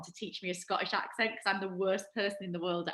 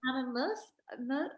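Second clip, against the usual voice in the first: badly faked Canadian accent, higher; attempted Canadian accent; 5 semitones higher than usual. Host tries copying her guest's word, bad Canadian accent. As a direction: mimic the guest's Canadian pronunciation. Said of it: "I can't do it".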